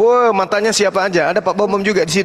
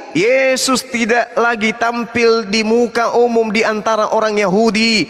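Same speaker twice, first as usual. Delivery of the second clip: slow, drawn-out verse reading; emphatic scripture reading; slower than usual. Acted. Debater proving Yesus withdrew from the crowds, slow emphatic reading. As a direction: stretch the key words as you read it out. Reads scripture aloud to opponent.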